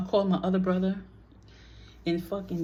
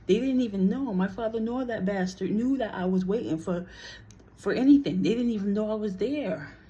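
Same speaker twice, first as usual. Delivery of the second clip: indignant; 3 semitones higher, 3 dB louder than usual. Real, not acted. Angry about brother's lies.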